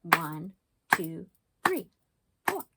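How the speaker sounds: One, two, three, four counted out beat by beat; clapping out syllables for kids; counting syllables. Shown as a demonstration. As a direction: count each clap evenly. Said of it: "we'd count the syllables".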